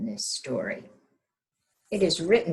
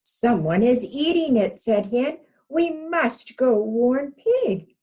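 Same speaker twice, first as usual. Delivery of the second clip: louder, higher, urgent warning; urgent hen; 7 semitones higher, 8 dB louder, slower than usual. Acted. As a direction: hurry them along.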